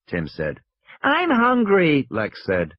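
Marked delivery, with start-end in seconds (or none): 1.0-2.1 high, slow, drawn-out whine; a little girl whining in the car. Acted. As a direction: complain like a tired child. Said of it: "She was starting to whine".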